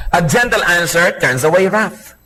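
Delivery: "gentle" drawn out, the verse said slowly; stress on gentle. Shown as a demonstration. Preacher repeats the verse to the congregation, weighting "gentle". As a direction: lean on "gentle" and take the verse at a slow pace. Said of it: "Ano po ang sabi sa Proverbs".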